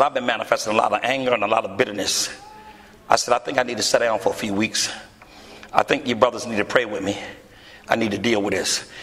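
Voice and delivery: humble admission to his chief son; subdued confession. Retold or imitated. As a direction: admit it humbly.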